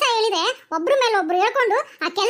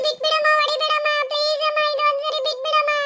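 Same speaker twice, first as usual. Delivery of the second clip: tearful pleading. Acted. Child begs mother to stop hitting, tearful pleading. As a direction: plead to be spared.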